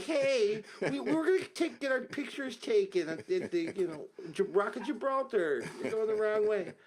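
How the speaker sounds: high-pitched, jokey "hey, wrong way" protest; mock protest. Hitchhiker jokingly objecting to a silent driver, mock high-voiced protest. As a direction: pitch it way up, playing at a naive passenger objecting. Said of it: "we're gonna be someone's girlfriend".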